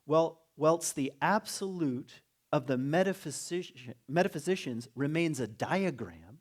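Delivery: slow, measured reading of a quotation; emphatic, unhurried recitation; reading aloud. Acted. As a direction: read it out deliberately, weighting key words. Reads a quoted passage aloud.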